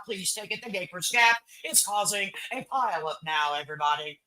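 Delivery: like a radio traffic reporter; newscaster voice. Retold or imitated. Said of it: "That sounds like a goddamn newscaster now".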